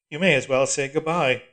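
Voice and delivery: loud cold echo; hard mocking repeat; iron voice. A narrator's reading. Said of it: "said the voice".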